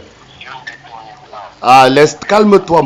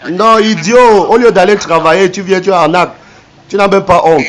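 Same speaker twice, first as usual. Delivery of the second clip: angry scolding; 4 semitones higher than usual. Real, not acted. Scolding the scammer angrily.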